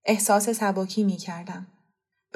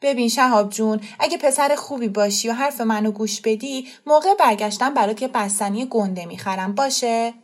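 impatient; 2 semitones higher than usual. Acted.

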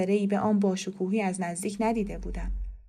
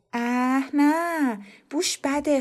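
disgusted; 6 semitones higher, much slower than usual. Acted. Girl disgusted by cigarette smoke.

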